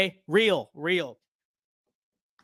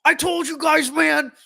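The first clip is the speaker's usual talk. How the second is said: high, loud put-on voice of a smug winner; squeaky told-you-so impression; mock gloating friend; 11 semitones higher, 5 dB louder than usual. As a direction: crow it like a friend who called it. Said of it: "he's like".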